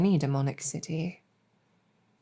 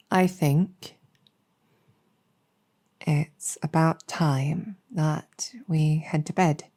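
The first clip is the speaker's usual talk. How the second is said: sleepy whisper; slower than usual. Acted. Settling listener down for sleep.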